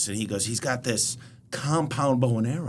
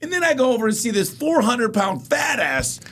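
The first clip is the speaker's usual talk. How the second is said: mock shout; 11 semitones higher than usual. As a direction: yell it as the punchline. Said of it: "then he's like".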